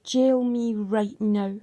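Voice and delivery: slow, deliberate, insistent demand; slow defiant challenge to the court; retold demand. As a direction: spell each word out at the police. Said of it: "I screamed at them".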